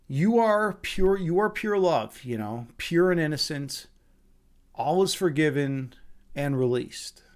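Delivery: slow, measured affirmation with long pauses; retold calm mantra; meditative forgiveness. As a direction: release them gently, phrase by phrase.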